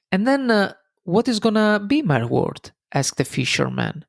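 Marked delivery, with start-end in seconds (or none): 0.1-2.7 smiling. Retold or imitated. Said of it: "still smiling".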